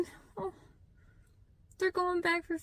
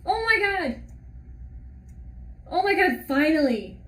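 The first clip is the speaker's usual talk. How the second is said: tearful excitement; 3 semitones higher, 3 dB louder than usual. Real, not acted. Aylin meets Chaol.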